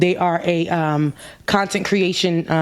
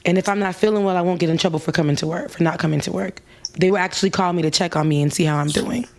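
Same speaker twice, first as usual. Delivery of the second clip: calm bartender; 3 semitones lower than usual. Retold or imitated. Bartender's calm wise reply.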